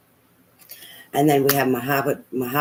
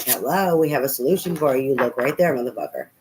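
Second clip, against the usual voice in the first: higher, mock-exasperated "hello"; exasperated Spirit voice; 3 semitones higher, 3 dB louder than usual. Spirit teasing the reader, mock exasperated. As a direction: play Spirit pointing out the obvious. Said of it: "Spirit's like".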